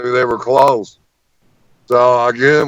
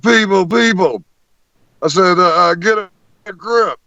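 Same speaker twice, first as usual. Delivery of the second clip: high, urgent appeal; calling the crew to order; 7 semitones higher than usual. Retold or imitated. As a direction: rein them in, pitched up and insistent. Calming the freaking-out crew.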